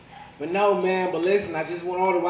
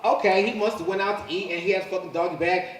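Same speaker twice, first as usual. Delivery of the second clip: ordinary delivery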